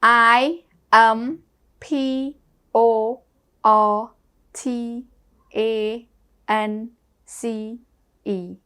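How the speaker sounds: slow letter-by-letter spelling; spelling aloud. Shown as a demonstration. Teacher spelling sadness for the class, slow and deliberate. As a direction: spell out S A D N E S S slowly, one letter at a time. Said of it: "Importance spell".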